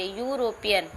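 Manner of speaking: यूरोपियन starting with a "yoo" sound; pronounced with a "yoo" onset. Shown as a demonstration. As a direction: say यूरोपियन with silent E, opening on "yoo". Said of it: "इसको पढ़ा जाता है यू से".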